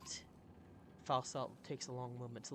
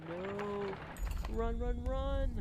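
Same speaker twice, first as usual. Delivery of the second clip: higher, louder cry to run; frantic higher shout of run; panicked shout; 8 semitones higher, 5 dB louder, much slower than usual. Acted. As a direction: yell at everyone to flee. Character panics at rumbling.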